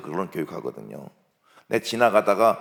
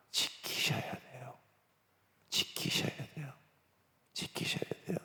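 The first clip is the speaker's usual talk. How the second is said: very soft, whispered insistence; hushed urging; 3 semitones higher, 14 dB quieter than usual. Real, not acted. Preacher urges parents to keep the rule, hushed. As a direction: press it home almost in a whisper. Solemn repeated plea to audience.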